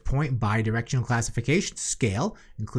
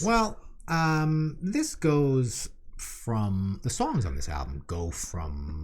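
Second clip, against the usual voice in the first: nerd voice; much slower than usual. Acted. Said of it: "Why are you doing nerd voice?".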